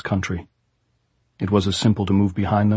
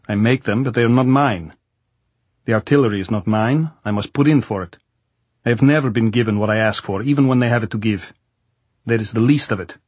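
soviet soldier. Acted. Goltz complains, then instructs.

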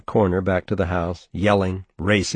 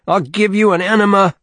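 much higher, shouted enema threat; screaming; 12 semitones higher, 6 dB louder than usual. A narrator's reading. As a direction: scream it at the boy pinned down. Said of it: "he kept screaming".

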